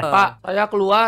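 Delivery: drawn-out slow rehearsal; slow, hesitant practice take; slow and unsure. Shown as a demonstration. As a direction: test the line slowly, unsure. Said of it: "Gaharin lagi".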